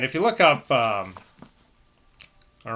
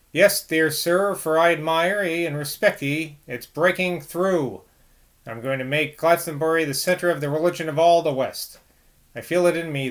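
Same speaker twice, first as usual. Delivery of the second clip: ranting preacher. Acted. Drunk Johnny preaching to Decker, lightly voiced fervent zeal.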